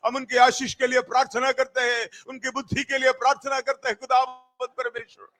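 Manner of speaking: fast, rolling prayer with repeated cadences; fervent intercessory prayer. Real, not acted. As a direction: pour out the petitions in a rapid stream.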